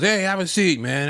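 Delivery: a hint of comedian impression; Adam Sandler. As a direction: wave a fan over in a mock star voice. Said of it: "that was a very good impression".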